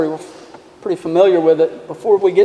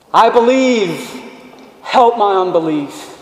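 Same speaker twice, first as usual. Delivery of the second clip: crying out; 4 semitones higher than usual. Retold or imitated. Broken-hearted dad cries out to Jesus for help, pleading cry. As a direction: call out I believe like a desperate father. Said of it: "the dad cries out, shouts".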